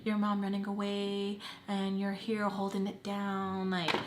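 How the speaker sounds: soft, slow, buttering-up voice; coaxing praise from the stepdad; flattering compliments. Retold or imitated. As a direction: lay the flattery on gently and slowly. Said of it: "complimenting me".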